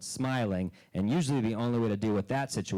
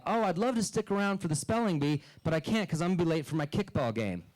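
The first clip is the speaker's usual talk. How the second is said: mocking bar guy; 5 semitones higher than usual. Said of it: "I overheard a guy in a bar say".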